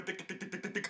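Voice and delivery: whispered rapid-fire swear words. Pretend. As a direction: hiss them out under your breath. Rapid swearing, voice dropping away.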